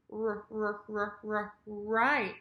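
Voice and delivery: "R" as repeated short rounded ruh sounds, then "right"; pushed R. Shown as a demonstration. Teacher shows learners the R push, rounded "R". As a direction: push lips forward on each "r" before "right". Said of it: "my lips go forward".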